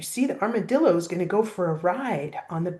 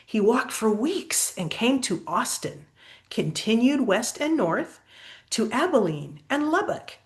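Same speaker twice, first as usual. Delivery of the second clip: lively, sing-song storybook reading; picture-book story voice; reading to children. Acted. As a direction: read the rhyme aloud to a child. Reads postcard and story.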